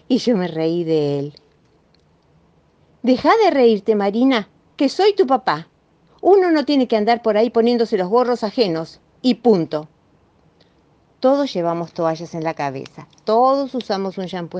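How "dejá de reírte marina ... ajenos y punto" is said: louder, stern lecture; scolding dad. Acted. Dad scolding Marina for laughing, stern. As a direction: put your foot down as a father.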